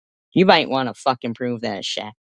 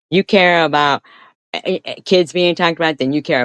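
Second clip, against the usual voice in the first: angry shout; 6 semitones higher, 5 dB louder than usual. Real, not acted. Heated accusation in a feud.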